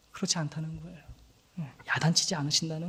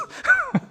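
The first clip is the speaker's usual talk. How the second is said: a short high burst of laughter; 4 dB louder than usual. Real, not acted. Pastor laughing at his joke to the congregation. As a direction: laugh at your own joke.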